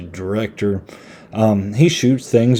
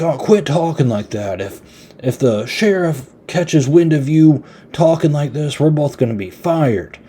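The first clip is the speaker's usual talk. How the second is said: higher-pitched, lightly acted protest; mock scolding; 5 semitones higher than usual. Driver tells the other coroner to quit talking like that, mock scolding. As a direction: imitate a fed-up telling-off.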